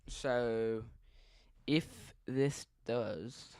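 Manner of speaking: put-on a touch of an Australian accent. Live storm watcher explaining radar, light Australian accent. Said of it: "I don't know why I'm talking in Australian accent".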